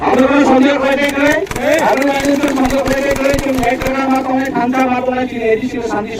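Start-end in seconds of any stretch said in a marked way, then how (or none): 0.1-2.5 rally speech. Real, not acted. Rousing voters at rally.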